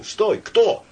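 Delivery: high, sudden cries; crowd shouts. A narrator's reading. Bystanders asking who was caught, shouting. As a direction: call out in confusion.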